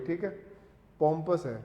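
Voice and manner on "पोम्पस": पोम्पस said POM-pus, short unstressed ending; correct pronunciation. Shown as a demonstration. Teacher repeats the right form, पोम्पस as POM-pus. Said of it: "पोम्पस है ये".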